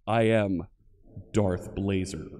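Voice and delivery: low, dark Sith Lord boom; Darth Vader voice. Retold or imitated. Streamer booms his handle as a Sith Lord, deep and dark. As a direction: intone it like the masked villain. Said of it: "like the Sith Lord himself, Darth Vader".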